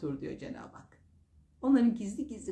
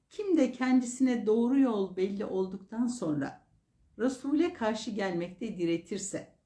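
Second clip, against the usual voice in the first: measured, emphatic reading of a verse; declaimed translation of holy text; formal scripture reading; 3 semitones higher, 4 dB louder than usual. Acted. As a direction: read it out solemnly, phrase by phrase.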